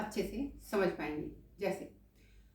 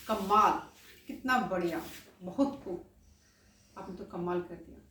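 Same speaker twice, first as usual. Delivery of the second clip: praising. Shown as a demonstration. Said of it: "तो उसमें कहते हैं".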